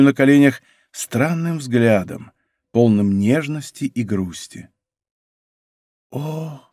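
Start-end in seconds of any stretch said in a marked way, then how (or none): 6.1-6.6 a soft, breathy sigh of O; шёпотом; whisper. A narrator's reading. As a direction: let the O barely escape, much softer. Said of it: "прошептала она наконец".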